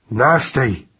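lightly voiced loud baby mouse; a touch of blunt disgust. A narrator's reading. Baby mouse reacts to cat smell, mildly loud. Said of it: "said Magnus loudly".

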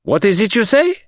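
high, sharp demand; high-pitched startled question; cried. Acted. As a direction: pounce on the slip. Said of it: "cried the commissary".

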